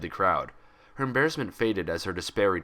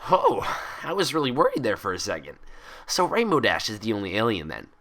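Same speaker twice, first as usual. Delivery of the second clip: bubbly Pinkie Pie voice; 2 semitones higher, 3 dB louder than usual. Acted. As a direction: chatter it out like an excitable pony. Pinkie relieved.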